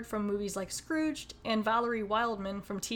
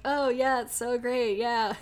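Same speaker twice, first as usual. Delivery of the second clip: mock passionate; 3 semitones higher, 4 dB louder, slower than usual. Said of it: "pretending on".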